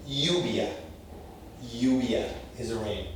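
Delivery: "Lluvia" as YOO-bya; Y sound ll. Shown as a demonstration. Teacher modelling Spanish y sound. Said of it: "as a Y".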